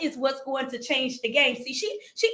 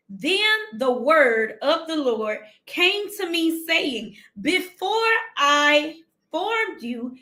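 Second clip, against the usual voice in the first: slow, deliberate preaching read; scripture reading; 3 semitones higher, slower than usual. Acted. Preacher reading Jeremiah aloud, slow deliberate sermon read. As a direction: read each word like it matters.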